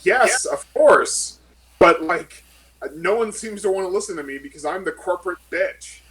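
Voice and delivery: an ignored corporate lawyer venting loudly; bitter outburst. Acted. Character answers superior, frustrated.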